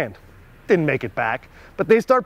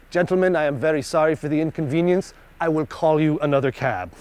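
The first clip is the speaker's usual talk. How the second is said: mock-courteous apology, each word neat and proper; politest perfect accent. Cop apologizing to the tourists in the taxi, lightly voiced, overly polite. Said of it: "in the politest, perfect accent".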